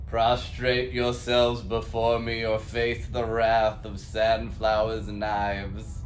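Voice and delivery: loud command. Acted. Cult leader threatening.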